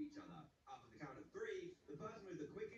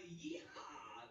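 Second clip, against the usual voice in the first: cowboy whoop. Real, not acted. Cowboy cheer after winning test.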